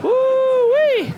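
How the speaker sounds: high whooping laugh; high laughing woo-wee. Real, not acted. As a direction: whoop out loud through the laughter. Laughing exclamation after joke.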